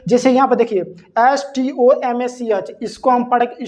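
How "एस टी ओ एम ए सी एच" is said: slow spelling. Shown as a demonstration. Teacher spells word letter by letter.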